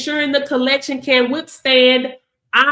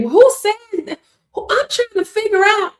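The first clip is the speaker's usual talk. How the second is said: indignant disbelief; 8 semitones higher than usual. Real, not acted. Outraged at a pricing rule.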